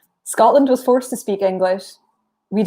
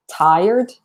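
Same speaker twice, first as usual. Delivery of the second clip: Glasgow tired. Shown as a demonstration. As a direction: say "tired" long and drawn out, like an A in there. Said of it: "it sounds like they're saying".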